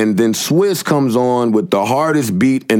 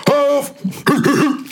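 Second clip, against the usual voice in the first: shouted. Real, not acted. Mock shout at a rapper.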